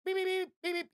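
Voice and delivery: high beeping alarm noise; alert beeps. Pretend. Alarm beeps for the floating head, high mock beeping. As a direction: beep like an alarm going off.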